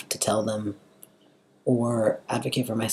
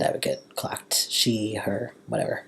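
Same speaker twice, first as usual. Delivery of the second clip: soft unvoiced whisper; 5 dB quieter than usual. Real, not acted. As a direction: breathe the words out. Whispered aside.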